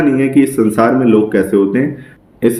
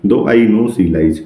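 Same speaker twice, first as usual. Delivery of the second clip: slow poem recital; much slower than usual. Shown as a demonstration. Teacher reading a Shakespeare sonnet line to students, very slowly. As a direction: read the verse very slowly, word by word.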